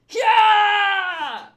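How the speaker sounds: put-on high, loud girlish scream; girlish crying shriek. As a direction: shriek it like a young girl. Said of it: "I immediately went to girl voice".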